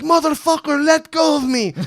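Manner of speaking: high, loud mock yell; retold yell. Fighter yelling at the guys holding him back, loud. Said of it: "he's, like, yelling at the guys".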